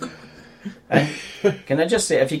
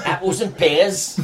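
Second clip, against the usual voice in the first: bad Cockney accent; 6 semitones higher, much slower than usual. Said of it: "What bad accent are you going for?".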